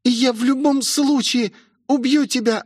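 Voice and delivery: высокий напряжённый голос; пригрози высоко, превозмогая боль; угроза через силу. A narrator's reading. Раненая Роузи грозит демонице. (угрожающе, с натугой)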